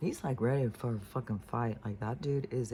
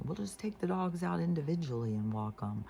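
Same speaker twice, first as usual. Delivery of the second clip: voicing fix-it mom; 5 semitones higher than usual. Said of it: "she just started trying to fix it".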